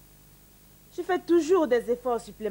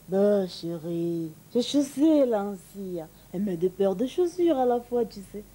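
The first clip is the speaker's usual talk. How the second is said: smiling husband; 4 semitones lower than usual. Retold or imitated. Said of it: "Monsieur me répond le sourire aux lèvres".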